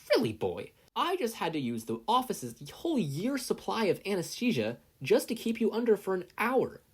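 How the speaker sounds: put-on high, scolding old nurse voice. A narrator's reading. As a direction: lecture him like a fussy nurse. Recovery Girl lecture voiced.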